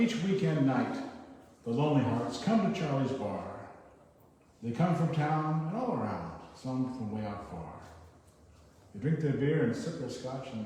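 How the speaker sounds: measured storytelling verse; narrative poem reading. Acted. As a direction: recite line by line with pauses between phrases. Reads a narrative poem aloud.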